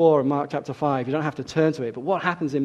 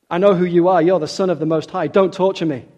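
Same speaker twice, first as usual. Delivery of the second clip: louder, higher pleading; desperate plea; 3 semitones higher, 6 dB louder than usual. Acted. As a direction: cry out for mercy. Possessed man speaks to Jesus.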